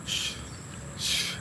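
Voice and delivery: hushing whisper, slow; whispered mock shushing; imitating a shush. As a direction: shush like someone asking for silence. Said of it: "she was like".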